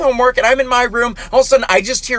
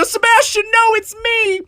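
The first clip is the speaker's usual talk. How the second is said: higher, urgent plea to the skunk; pleading alarm; 10 semitones higher, slower than usual. Retold or imitated. Facing a skunk with its tail raised, pleading. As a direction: beg it not to spray. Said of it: "And I go".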